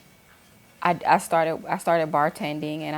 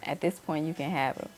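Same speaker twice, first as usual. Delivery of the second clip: softer, calm and resigned; calm, no anger; 5 dB quieter than usual. Retold or imitated. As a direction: let it go gently, at peace. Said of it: "I had no anger".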